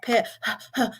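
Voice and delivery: quick, shallow little puffs of breath. Shown as a demonstration. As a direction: demonstrate shallow breathing, not from the diaphragm. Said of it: "I'm not talking about a pat".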